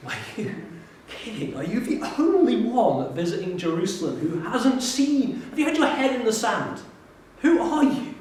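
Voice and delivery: can't believe the stranger hasn't heard; incredulous disbelief. Acted.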